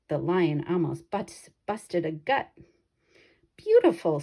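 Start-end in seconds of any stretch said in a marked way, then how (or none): 3.6-4.2 man's praise, much higher and louder; delighted man. Acted. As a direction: savour the roar like a director. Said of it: "said the man".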